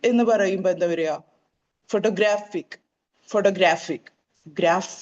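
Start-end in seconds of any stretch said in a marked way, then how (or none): 1.9-5.0 ഫോട്ടോഗ്രാഫിക് with GRAPH punched; ഫോട്ടോഗ്രാഫിക് said pho-to-GRAPH-ic; stress on graph. Shown as a demonstration. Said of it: "ഗ്രാഫ് എന്ന ഒരു ഭാഗത്ത് stress". (ഫോട്ടോഗ്രാഫിക് ഗ്രാഫിൽ ഊന്നൽ)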